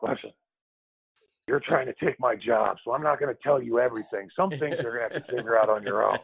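understated veteran teammate impression; lightly voiced veteran, matter-of-fact refusal; Bill Cartwright. Veteran telling the kid after his job, lightly imitated Bill Cartwright. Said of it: "I'll do my best Bill Cartwright impersonation".

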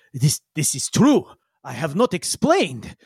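put-on halting, accented admission; slightly confused character. Yigsel stopped short by Danger, slightly confused. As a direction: concede it hesitantly, in character. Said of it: "he looks a little confused".

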